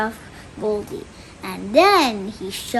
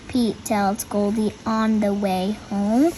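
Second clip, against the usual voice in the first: put-on reading to children; slower than usual. A narrator's reading. Reads the picture book aloud.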